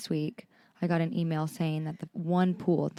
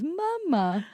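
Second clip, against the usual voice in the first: higher, robotic toddler imitation; 10 semitones higher than usual. Mother copying how her son answers her, robotic toddler voice. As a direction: copy a small child sounding out the word. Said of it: "that's how he says it".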